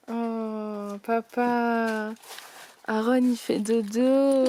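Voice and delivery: playful laughing sing-song. Shown as a demonstration. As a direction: say it through giggles, slowly.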